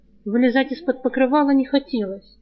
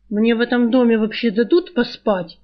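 grim angry question. Acted. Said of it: "мрачно и зло спросил".

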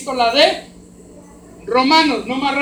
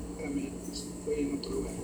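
muttered aside; 10 semitones lower, 15 dB quieter than usual. Real, not acted. Aside, losing his place.

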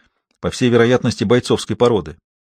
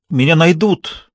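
higher, slow shouted cry; defiant cry; 6 semitones higher, slower than usual. A narrator's reading. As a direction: hurl it at him as a shout. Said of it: "крикнула она".

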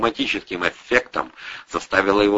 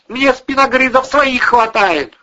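higher, loud nagging woman's voice; angry housewife berating drunk tenants, higher; scolding landlady; 8 dB louder than usual. A narrator's reading. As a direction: tear into the lazy lodgers. Irina retorts.

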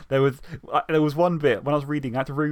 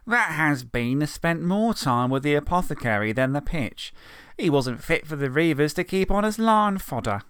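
put-on a touch of sneering kid; scornful Mick; 2 semitones higher than usual. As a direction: taunt with scorn. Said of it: "scoffed Mick".

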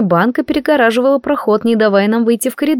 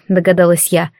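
ordinary delivery, nothing marked

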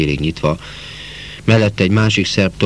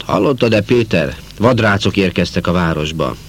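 put-on booming, higher old uncle; loud voice; 4 semitones higher than usual. Uncle Tamás greets Péter with gossip, loudly. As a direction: announce the news big and loud. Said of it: "nagy hangon fogadott".

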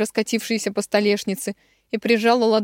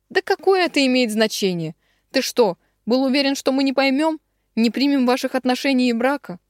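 higher, pressing string of questions; incredulous protest; 6 semitones higher, 3 dB louder than usual. A narrator's reading. Igor dismisses Ilya's objections, incredulous. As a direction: challenge him in disbelief.

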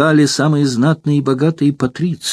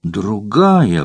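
understated fury. Acted. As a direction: drop it down, bitterly final. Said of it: "воскликнула она в ярости".

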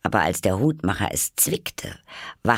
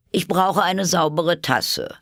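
high, loud, slow demand; interrupting Hatter; 11 semitones higher, 5 dB louder, slower than usual. A narrator's reading. Hatter breaks in wanting a cup, high and loud.

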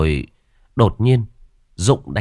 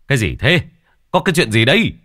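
startled, raised questioning voice; alarmed questioning; 6 semitones higher, 4 dB louder, faster than usual. A narrator's reading. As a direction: demand what is going on, voice climbing higher. Villagers rush in, alarmed by noise. (hốt hoảng hỏi dồn)

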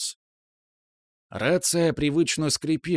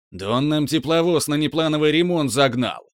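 raised boss voice; angry boss; 3 semitones higher, 4 dB louder than usual. Acted. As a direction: shout it at the worker. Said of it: "Начальник орал так".

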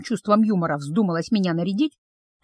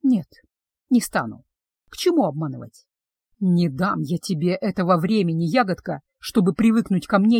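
lovesick betrothed; 3 semitones lower than usual. Acted. Betrothed confesses his love to the witch, low and tender. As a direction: lower male voice, tender.

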